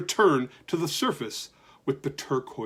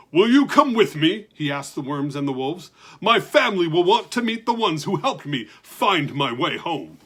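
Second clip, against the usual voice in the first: hopeful giant; 3 dB louder than usual. Acted. Giant asks warmly.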